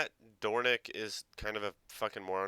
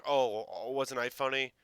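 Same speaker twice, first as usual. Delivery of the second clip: mock self-satisfied; 4 semitones higher, 4 dB louder than usual. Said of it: "weird little smile that was like".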